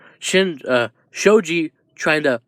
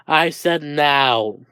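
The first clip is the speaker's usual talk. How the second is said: stern order; much slower than usual. Acted. Teacher acted, cutting off the excuse.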